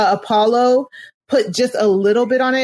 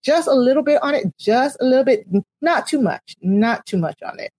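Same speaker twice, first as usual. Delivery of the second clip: just a little taste of Southern accent; 2 semitones higher than usual. Shown as a demonstration. Judging a co-host's accent, in a light Southern accent. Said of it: "that was my little taste of my Southern accent".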